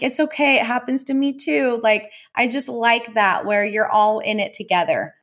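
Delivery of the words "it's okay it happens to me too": put-on much higher, sweet little boy voice; imitating her son. Son reassuring his mom after she yelled, high boyish voice. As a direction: play the kind young son comforting mom. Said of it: "he's like".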